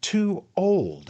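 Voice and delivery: very high, loud outrage; outraged exclaim. A narrator's reading. Tupman, stung, loud and high in outrage. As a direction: fling the words back in disbelief. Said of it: "exclaimed Mister Tupman".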